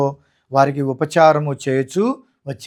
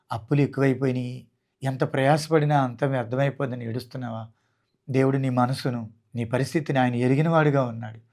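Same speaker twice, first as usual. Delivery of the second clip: softer, gentle consoling voice; tender comforting; 3 semitones lower, 5 dB quieter than usual. Acted. Jesus speaking to a weeping woman, soft and tender. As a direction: comfort someone who is weeping.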